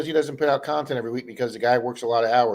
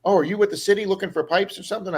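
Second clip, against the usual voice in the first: lightly imitating the lady, pitched up; retold question in a higher voice; lady's question; 6 semitones higher than usual. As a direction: ask it as the inquiring lady, higher. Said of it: "And she goes".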